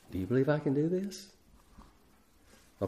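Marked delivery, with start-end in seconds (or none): 0.1-1.3 gentle. Acted. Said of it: "has he just gently said".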